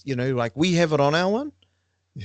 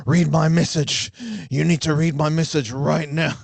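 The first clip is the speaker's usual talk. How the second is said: mock-insisting like a teacher waiting impatiently; impression of Matua Frank. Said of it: "this is my impression of Matua Frank right now".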